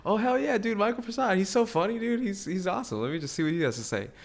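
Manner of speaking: high, excited fanboy gushing; mock fan voice. Mimicking a viewer who loves the show, high and gushing. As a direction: gush like an eager fan clicking the video. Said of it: "people are clicking this like".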